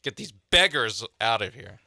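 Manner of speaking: a hint of sneering disdain; venomous sneer. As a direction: spit out with scorn, lightly done. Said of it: "says it with a lot of venom".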